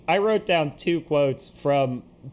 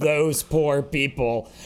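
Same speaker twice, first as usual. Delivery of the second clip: slow mock sad; slower than usual. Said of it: "they pause and they go".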